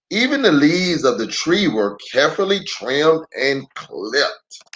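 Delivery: put-on gentle read-aloud for little kids; unhurried picture-book narration; story narration. A narrator's reading.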